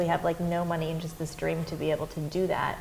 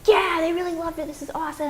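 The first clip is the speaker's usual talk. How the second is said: much higher, beaming self-congratulation; young filmmaker pleased with her school screening, much higher; proud and pleased; 11 semitones higher than usual. Retold or imitated. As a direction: bask in it like it went great. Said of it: "And I was like".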